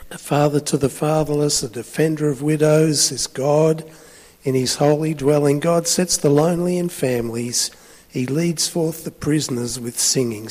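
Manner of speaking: firm, declarative psalm reading; scripture reading. A narrator's reading. Preacher reads a psalm to the congregation, proclaiming. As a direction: proclaim the verse to the room.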